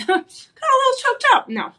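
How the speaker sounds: laughing it off, embarrassed; giggling through the words. Real, not acted. Embarrassed after clearing throat.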